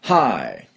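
"Hi" with an audible H; H sound. Shown as a demonstration. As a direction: let breath start "Hi" on a clear H. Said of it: "Hの音".

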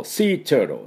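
turtle with R colour and softened middle T; American flapped T. Shown as a demonstration. Teacher modelling for students, Sea turtle with flapped American T. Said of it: "その音で発音していきましょう".

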